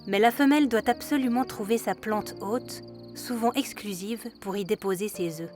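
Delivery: calm documentary voice-over; nature documentary. A narrator's reading. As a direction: narrate it like a wildlife film.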